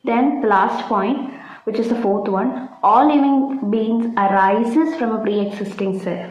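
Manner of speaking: slow, careful dictation pace. Acted. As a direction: spell it out for notes, slowly. Dictating cell theory point. (പതുക്കെ പറഞ്ഞുകൊടുക്കുന്ന രീതി)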